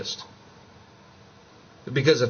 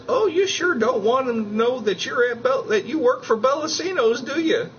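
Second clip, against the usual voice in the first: higher, lightly voiced teasing cashier; teasing cashier lady; 12 semitones higher than usual. Gas station cashier teasing him about his work shirt, higher teasing tone. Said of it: "and the lady goes".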